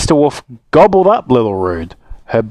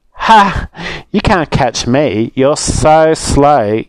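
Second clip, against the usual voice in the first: taunting; 4 semitones higher, much slower than usual. Acted. Little Rude taunting Mister Wolf, mocking and cheeky. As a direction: tease him like a brat.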